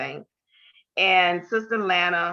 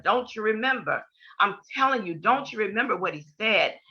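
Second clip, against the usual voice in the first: retold insistence; 4 semitones higher than usual. Insisting to disbelieving sister.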